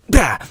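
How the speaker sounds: sudden "bah" to startle; short demo startle noise; mock lunge shout. Shown as a demonstration. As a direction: burst out to make them flinch. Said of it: "It mean, you know, like, so".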